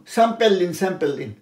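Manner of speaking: স্যাম্পল as sem-pel, mimicking doctors; doctors' mispronunciation. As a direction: toss off স্যাম্পল with e vowels. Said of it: "অনেক doctor এরকম".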